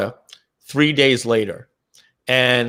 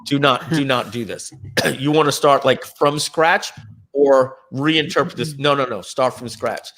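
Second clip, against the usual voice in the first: weary pleading. Retold or imitated. Impersonating himself, pleading with partners to keep the code. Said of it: "I'll do my impression".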